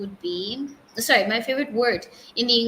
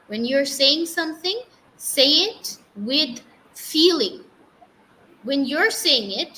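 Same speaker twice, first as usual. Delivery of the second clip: emphatic teacher, louder on key words; strict teacher; 3 semitones higher, 3 dB louder than usual. Retold or imitated. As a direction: imitate a coach demanding more, punching each phrase. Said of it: "She was a very strict teacher".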